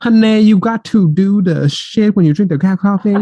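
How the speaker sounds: high-pitched, put-on Asian accent; forced Asian accent. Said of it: "I had to force that".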